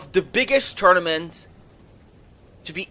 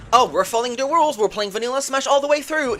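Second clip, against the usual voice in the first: mocking quote; 5 semitones higher, faster than usual. Mocking opponents' self-righteous claim.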